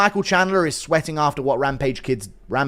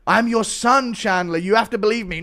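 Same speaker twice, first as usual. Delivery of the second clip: put-on higher, louder pleading kid; pleading son; 6 semitones higher, 4 dB louder than usual. Son pleading with old Chandler to remember him, higher. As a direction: son begging his father to know him. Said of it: "Chandler is an old man with dementia".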